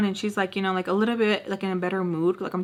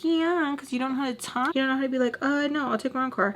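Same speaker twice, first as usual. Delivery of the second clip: self-mockery; 5 semitones higher than usual. Mocking her own hesitant people-pleasing.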